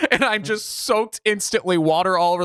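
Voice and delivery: laughing while telling. Real, not acted. Laughing while recounting rain soaking.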